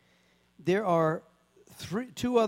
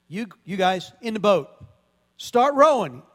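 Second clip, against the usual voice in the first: commanding order; 2 semitones higher, 8 dB louder than usual. Retold or imitated. Jesus orders his disciples into the boat, loud command. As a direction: bark it like the master giving orders. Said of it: "and he says".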